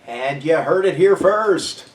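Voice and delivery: mock announcer sign-off. Mock announcer button on rant.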